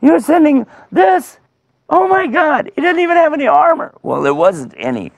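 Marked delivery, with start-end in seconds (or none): 0.0-3.9 high, loud scornful disbelief; scandalised giant, voice way up; incredulous giant. Acted. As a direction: exclaim in outrage at a tiny opponent. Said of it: "He said".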